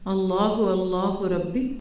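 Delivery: slow, word-by-word Arabic recitation; deliberate recitation for learners to follow; dua recitation. Shown as a demonstration. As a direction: teach the prayer slowly, stretching each word. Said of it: "چار لفظ ہیں".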